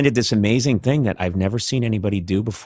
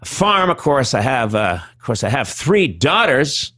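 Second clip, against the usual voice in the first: Norm impression. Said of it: "I'd be like".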